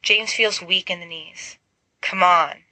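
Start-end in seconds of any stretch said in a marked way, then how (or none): 2.0-2.6 commanding. Acted. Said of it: "she commands".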